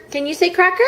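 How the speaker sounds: put-on mother coaxing her baby to say a word, high baby talk. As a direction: lift the voice way up to coax the baby.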